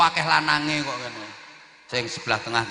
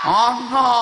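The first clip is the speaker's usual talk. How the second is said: loud eager yes; 10 semitones higher, 7 dB louder than usual. Real, not acted. Audience answers, preacher echoes.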